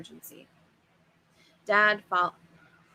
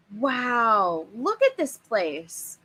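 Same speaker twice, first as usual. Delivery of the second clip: excited wonder; 2 semitones higher, much slower than usual. Acted. Kid stepping through the park gates, mild amazed cry. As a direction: take it all in with wide-eyed awe. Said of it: "I cried".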